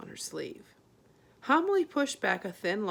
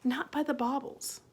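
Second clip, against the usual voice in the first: higher, anxious; worried mother; 6 semitones higher than usual. A narrator's reading. Homily fretting to Arietti, higher and anxious. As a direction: fret about the old man. Homily worrying about Pod.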